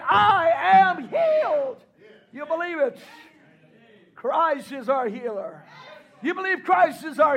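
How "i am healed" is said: drawn-out shouted declaration; slow shouted declaration. Acted. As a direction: call it out slowly to the crowd. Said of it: "Can you shout it out tonight?".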